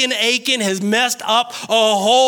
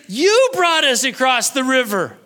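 blaming God; 3 semitones higher than usual. Acted. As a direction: pile up the titles, then lay the blame. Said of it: "Joshua blamed God".

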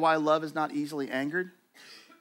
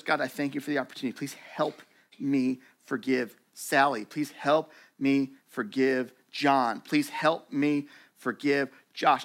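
sincere prayer. Retold or imitated. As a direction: pray it sincerely, name by name. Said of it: "It goes".

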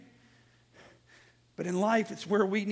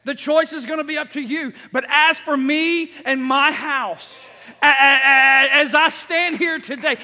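loud, higher-pitched, emphatic sermon delivery; full-force preaching; 6 semitones higher, 12 dB louder than usual. Real, not acted. Preacher declares his faith to the congregation, full-force preaching. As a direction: preach it at full volume, driving each phrase.

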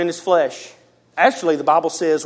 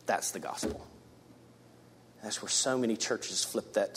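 soft whispered emphasis; 7 semitones lower, 15 dB quieter than usual. Real, not acted. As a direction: drop to a whisper to land the point. Sermon point whispered for emphasis.

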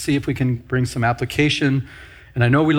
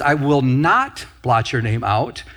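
"not" drawn out with rising pitch; emphatic "not"; slower than usual. Retold or imitated. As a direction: lean slowly on the word "not", then pause. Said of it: "it's emphatic. That word "not".

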